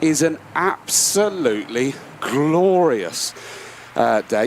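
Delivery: puffing between words after a climb; winded from running up steps; out of breath. Real, not acted. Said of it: "I'm just out of breath".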